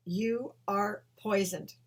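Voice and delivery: slow, deliberate, a hint of an otherworldly voice; slow vision voice. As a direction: say each word slowly, like a vision. Mysterious vision speaking to her.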